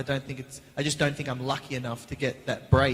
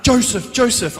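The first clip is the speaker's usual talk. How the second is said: panicked call; 8 semitones higher, 9 dB louder than usual. Retold or imitated. Panicked calling out to co-star.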